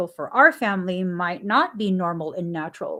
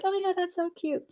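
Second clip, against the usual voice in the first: gushing; 9 semitones higher, 6 dB quieter, faster than usual. Retold or imitated. Gushing over cute preschool name.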